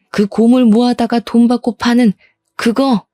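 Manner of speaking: incredulous, disdainful questioning; aghast mother-in-law. Acted. Mother-in-law questioning the family junk business, aghast. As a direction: check it in appalled disbelief. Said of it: "기겁을 하시면서 놀라시더라고요".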